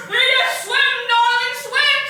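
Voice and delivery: loud, high frantic calling out; screamed plea. Acted. Father screaming at drowning Edith to swim, loud and high. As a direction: yell across the lake for her to swim. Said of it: "My father screamed after her".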